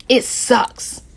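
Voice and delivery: breathy whispered despair; a hushed, worn-out whisper. Real, not acted. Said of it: "I'm super emotional with this".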